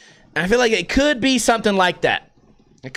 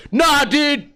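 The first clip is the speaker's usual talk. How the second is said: higher-pitched mock dude voice; VX camera defender; 5 semitones higher than usual. VX fan defends the camera, mock dismissive dude. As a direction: imitate a fan brushing off every argument. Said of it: "That's how V X people defend".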